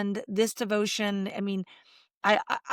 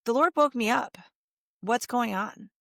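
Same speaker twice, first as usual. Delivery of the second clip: gentle concern. Retold or imitated. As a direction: ask "What's going on?" tenderly, without blame. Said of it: "It's like".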